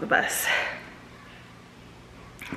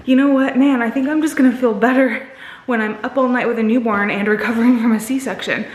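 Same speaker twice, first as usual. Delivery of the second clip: louder, sarcastic retelling to husband; mock joking; 3 semitones higher, 5 dB louder than usual. Mom retelling her sarcastic line to her husband, louder mock joke. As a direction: throw it out like a wry joke. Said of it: "it sounds like I'm joking".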